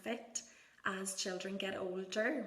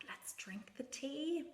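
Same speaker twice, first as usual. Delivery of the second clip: slow, higher, hushed offer; gentle invitation to child; 5 semitones higher, 3 dB quieter than usual. Shown as a demonstration. Parent joining a toddler's tea party, slow and hushed. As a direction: coax softly as if pouring pretend tea. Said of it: "you can talk about pouring tea".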